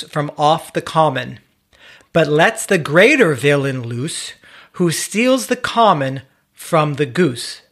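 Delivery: put-on slow, solemn English-accented poem reading; cultured accent voice. Reading the old poem to his cohosts, slow cultured English accent. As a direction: recite it slowly like a cultured English reciter. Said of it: "that voice of yours".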